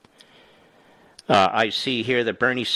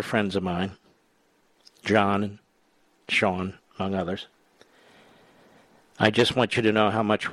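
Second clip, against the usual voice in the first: sincere tribute; 3 semitones lower than usual. Real, not acted. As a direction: speak gently to grieving families. Memorial Day tribute to families.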